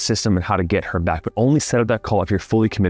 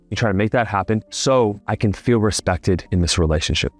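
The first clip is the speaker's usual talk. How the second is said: calm. Shown as a demonstration. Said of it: "you are calm".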